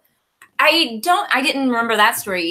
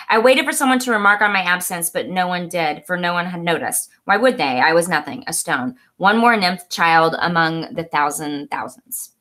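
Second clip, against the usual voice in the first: measured, slightly lower literary read; reading aloud; 4 semitones lower than usual. Acted. Reading a favorite book quote to co-host, measured read-aloud. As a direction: read the passage out deliberately.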